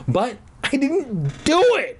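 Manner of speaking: put-on high, loud girlish denial; cry out. A narrator's reading. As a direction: shout it like a kid falsely accused. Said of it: "I cried out loud".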